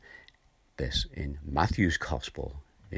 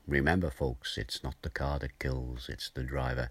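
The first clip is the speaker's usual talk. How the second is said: lightly attempted American accent, pitched lower; 4 semitones lower than usual. Preacher quoting an old TV show's closing words, hint of American accent. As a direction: have a modest go at an American TV cop's sign-off. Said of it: "a raw American accent".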